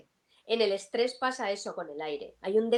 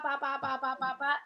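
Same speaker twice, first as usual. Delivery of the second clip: choppy breath imitation; 3 semitones higher than usual. Shown as a demonstration. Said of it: "el diafragma está haciendo".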